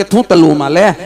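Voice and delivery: "તલવું" with l for r; childish lisp; lisping Magan. Retold or imitated. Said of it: "તોતડી હોય ને".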